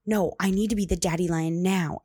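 loud imitation of a child's demand; insistent toddler. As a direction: insist like a stubborn toddler, lightly acted. Retold toddler insisting in argument.

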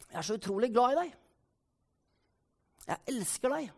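acted quiet tenderness; tender affection. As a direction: say it gently and intimately. Acted examples of loving words.

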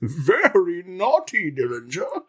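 high, slow teasing voice; flirty scolding. Pretend. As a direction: tease him playfully. Voicing heroine scolding Dillinger.

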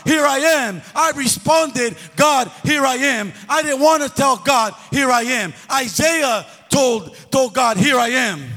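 rally the men in the room; fervent preaching. Acted. Preaching, rising to shouts.

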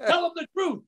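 sharp high command "Tell him the truth"; mock yell. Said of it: "I yelled at him".

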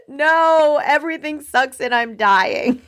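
hammed-up exasperated meltdown; mock angry outburst. Customer blowing up at a poor Starbucks employee, mock angry. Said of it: "might even come out as anger".

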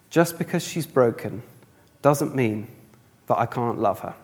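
soft, slowing, falling away; tender. Retold or imitated. Little girl to Daddy about her broken doll, tender. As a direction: gently deliver the child's loving answer.

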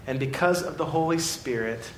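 tender God. Acted. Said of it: "God this morning is saying".

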